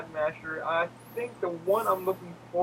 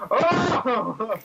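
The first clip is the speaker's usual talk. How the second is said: surprised oh; 7 semitones higher, 5 dB louder than usual. Retold or imitated. Friend's reaction retold.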